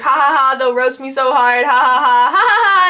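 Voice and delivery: hammed-up written-out "ha ha ha"; mock texted laughter. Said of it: "they, like, huge caps".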